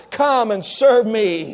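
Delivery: low, measured appeal with long pauses; solemn preaching. Real, not acted. Preacher asking if Christ is calling, low and solemn. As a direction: let each phrase hang, grave and low.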